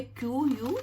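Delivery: letters spelt one by one, slowly; teacher spelling the word letter by letter. Shown as a demonstration. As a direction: spell it out for the class. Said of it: "उसकी spelling है".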